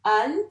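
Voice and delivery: "Alphabet" loud, three well-separated syllables. Shown as a demonstration. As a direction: point through "Alphabet" one syllable at a time. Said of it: "chaque rond pour chaque syllabe". (« Alphabet » fort, une syllabe après l'autre)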